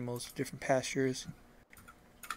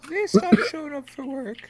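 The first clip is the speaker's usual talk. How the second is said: odd farmer voice; 13 semitones higher, 9 dB louder than usual. Acted.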